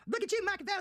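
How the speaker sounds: high mocking praise; sneering mock compliment. Real, not acted. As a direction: tease him way up high.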